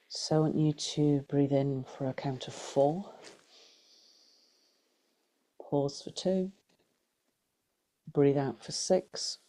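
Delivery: unhurried guided meditation voice, long pauses. Acted. Teacher guiding a group through breath and body scan, guided meditation. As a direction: lead them gently through breath and body, leaving space.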